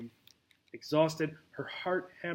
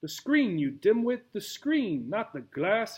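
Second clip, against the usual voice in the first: high, loud scolding yell; exasperated shout; 6 semitones higher, 3 dB louder than usual. Acted. Tarantula yelling at the clumsy snake, exasperated. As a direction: snap at the dimwit snake. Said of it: "shouted Jose".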